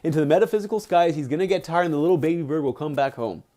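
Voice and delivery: teasing older-brother voice, lightly acted; lightly mock him like an older brother; Ananta mocking. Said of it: "his older brother Ananta mocking him".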